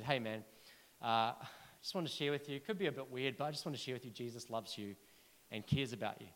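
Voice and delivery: shy stranger on a plane, offering quietly; timid. Retold or imitated. Timid seat neighbour whispering the message, hesitant. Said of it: "just full of timidity and".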